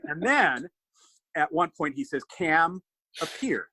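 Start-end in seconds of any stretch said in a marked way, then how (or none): 2.4-3.7 imitated bad French accent, vowels mangled; shitty French accent. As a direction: put on a clumsy French accent. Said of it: "that's shitty French accent for".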